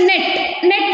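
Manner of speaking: "ನೆಟ್" with a brief e; quick short vowel in "ನೆಟ್"; short E sound. Shown as a demonstration. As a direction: say "ನೆಟ್" without stretching the vowel. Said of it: "the E in the net makes a short sound".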